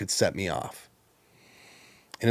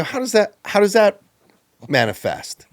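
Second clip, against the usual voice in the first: high defensive question; 11 semitones higher, 5 dB louder than usual. Retold or imitated. Retold defensive question, louder.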